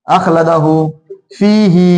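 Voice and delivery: अखलदहु and फीही with long हु and ही; two-count endings. Shown as a demonstration. Teacher models for students, फीही and अखलदहु drawn out. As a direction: hold the vowels of फीही and the end of अखलदहु. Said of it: "दो मरतबा खींचेंगे".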